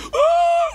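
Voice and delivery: very high, loud mock howl; dog cry. Sad dog crying for its owner, a loud high howl. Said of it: "sedih dia".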